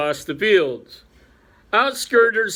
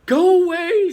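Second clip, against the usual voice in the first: urgent cry; 14 semitones higher, 6 dB louder than usual. Acted. Fiber urges the Chief Rabbit to flee, loud. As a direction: go away, higher and louder.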